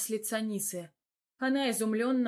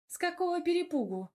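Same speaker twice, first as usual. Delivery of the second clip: indignant outburst, much higher; 9 semitones higher than usual. A narrator's reading. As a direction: bristle with outrage. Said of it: "возмутилась моя девочка".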